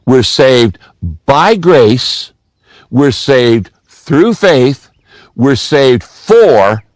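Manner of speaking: slow, pausing, landing on "by", "through" and "for"; single out "by", "through", "for" with weight; stress on prepositions. Shown as a demonstration. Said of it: "notice there are three prepositions in that sentence".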